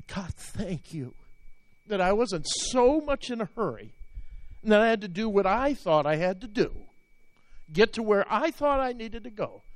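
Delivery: choked up. Real, not acted. Pastor retelling his grateful prayer, close to crying. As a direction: voice rising high and tearful as he relives the moment. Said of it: "I'm gonna cry right now".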